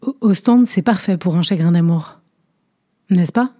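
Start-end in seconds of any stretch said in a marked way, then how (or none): 0.0-0.7 un léger bégaiement égaré sur « O-, Ostende »; hésiter et trébucher sur le premier mot; balbutiement. Acted. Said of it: "Elle balbutia l'air égaré". (la vieille dame, troublée, bredouille à peine)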